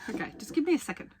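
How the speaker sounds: stifled giggles. Real, not acted. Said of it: "trying not to laugh".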